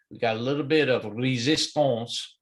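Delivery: a light mock French accent on resistance; half-hearted French accent, just a hint. Host on a trading stream slipping into a playful French accent. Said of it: "Sometimes I throw out that French accent".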